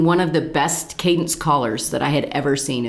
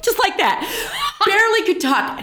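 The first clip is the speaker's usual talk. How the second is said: laughing; 14 semitones higher than usual. Real, not acted.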